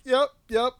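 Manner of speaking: put-on high, loud little kid saying yep; high-pitched toddler answer. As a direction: chirp it like a small child. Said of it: "He's like".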